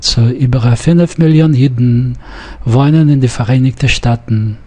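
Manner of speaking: Jiden and Staaten with syllabic dn and tn, sung a little, fast; quick read, syllabic Jiden and Staaten; syllabic endings. Shown as a demonstration. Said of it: "You have to sing them a little bit".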